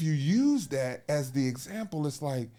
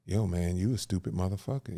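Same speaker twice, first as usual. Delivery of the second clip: lower, blunt mock insult; mock rude insult; 5 semitones lower than usual. Shown as a demonstration. Man demonstrating rude talk, lower mock insult. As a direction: sneer it like a casual put-down. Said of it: "I was talking to you like this".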